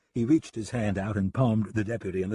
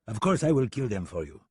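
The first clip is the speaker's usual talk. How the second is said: put-on measured French-accented reassurance; more serious French accent. French gunman settles the angry deputy, serious French accent. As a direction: placate him soberly in a French accent. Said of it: "said in a more serious tone".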